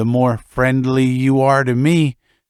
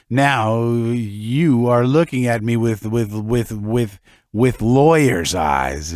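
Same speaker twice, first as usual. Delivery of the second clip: put-on drunk, slow, stumbling over words; stuck repeating words like a drunk; tipsy; slower than usual. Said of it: "yeah, I am tipsy".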